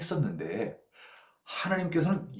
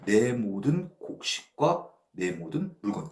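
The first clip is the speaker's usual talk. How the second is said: possessive rich man; 3 semitones lower, slower than usual. Retold or imitated. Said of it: "이렇게 표현했어요".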